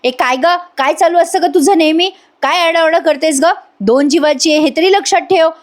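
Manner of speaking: a retold constable scolding the prisoner. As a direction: tell her off like a strict jail constable. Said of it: "ओरडते तिच्यावर".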